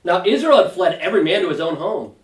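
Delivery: measured Bible reading voice; steady, deliberate scripture reading. Acted. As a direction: read the passage aloud to the group, unhurried. Reads scripture aloud.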